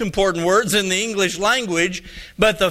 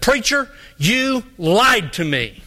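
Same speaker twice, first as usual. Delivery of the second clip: slow, pointed mock accusation; drawn-out, mildly indignant charge; retold accusation; 3 semitones higher, slower than usual. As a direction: act out an indignant church member confronting the pastor. Retold confrontation with Junior.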